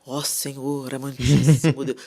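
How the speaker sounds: lightly mocking a stiff, formal prayer; pompous churchy prayer, a little hammed-up; mock ornate prayer. Mocking the prayers the youth were taught, in a lightly pompous tone. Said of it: "sabe aquelas orações rebuscadas que a gente aprendeu?".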